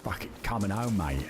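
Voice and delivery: hammed-up London accent, home rising, mate dropping; second go at a London accent; mock London accent. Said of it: "It's trying to be London".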